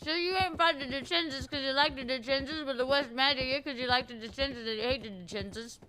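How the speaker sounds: talking while eating chocolate; words round a bite of chocolate; mouth full. Real, not acted. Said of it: "What are you eating?".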